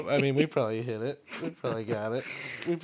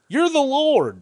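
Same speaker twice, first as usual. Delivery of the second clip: booming voice; 13 semitones higher, 5 dB louder, slower than usual. Acted. Joke title for game.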